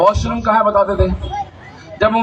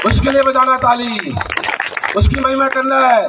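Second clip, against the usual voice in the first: rally the congregation to praise, building in force; full-force preaching; 5 semitones higher than usual. Real, not acted. (पूरे जोश में ऊँची आवाज़ का उपदेश)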